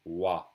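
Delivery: "Wa" as a single open syllable. Shown as a demonstration. Teacher repeating the O I sound, a clear "Wa". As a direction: glide w straight into ah, "Wa". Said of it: "Like that".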